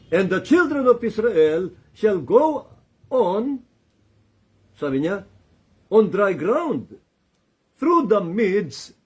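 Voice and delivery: high, loud and slow proclamation; proclaiming scripture. Acted. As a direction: declare each word slowly like a prophecy. Quoting scripture, God speaking.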